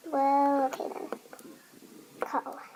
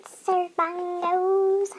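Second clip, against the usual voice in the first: calling out; 3 semitones higher, 5 dB louder, much slower than usual. Acted. Waiter-like announcing the food.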